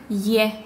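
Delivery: front ye sound on «е»; я read as е. Shown as a demonstration. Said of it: "в мягких словах читается как".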